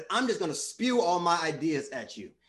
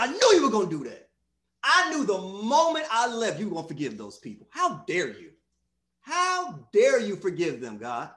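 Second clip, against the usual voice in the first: acted indignant outburst, loud burst at the start; mock outrage, slowing on the last reproach; angry Jonah; 3 dB louder than usual. Preacher as Jonah scolding God for forgiving, indignant. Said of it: "and I'm mad".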